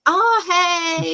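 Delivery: high, eager hail across the fence, imitated; mock-eager fan calling out to a driver; eager call for attention. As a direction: call out to catch his eye, playfully. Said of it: "trying to get his attention".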